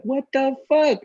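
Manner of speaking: slow, high, baffled "what the fuck"; bewildered, drawn-out disbelief. Retold or imitated. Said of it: "I was like".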